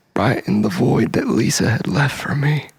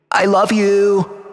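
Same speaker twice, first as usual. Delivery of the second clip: drawn-out declaration; 6 semitones higher, slower than usual. Acted. Declaring love to Lisa.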